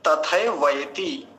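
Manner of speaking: तथैवयति slowly as "ta-thai-vai-ti"; full ai vowels. Shown as a demonstration. Teacher pointing out two matras, full ai in तथैवयति. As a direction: stretch both ai sounds in तथैवयति. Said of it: "इसमें भी दो मात्राएं हैं".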